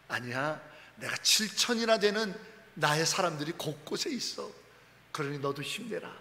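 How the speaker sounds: gently reassuring voice of God; a hint of comforting God. Preacher voicing God reassuring lonely Elijah, tender.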